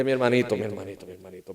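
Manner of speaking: low, fading repeated address; gently checking him. Retold or imitated. Pastor retells answering the desperate husband, gently checking him.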